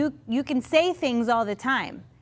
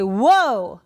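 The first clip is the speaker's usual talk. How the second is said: impressed Jesus; 5 dB louder, slower than usual. Retold or imitated. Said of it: "He's gonna say".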